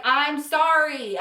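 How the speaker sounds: slow, stretched-out retold sorry; pleading apology. Girlfriend apologizing for embarrassing him, pleading. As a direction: draw the apology right out, mildly acted.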